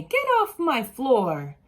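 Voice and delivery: slow, stern order; mock scolding mother. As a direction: scold like an annoyed mom. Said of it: "She would say".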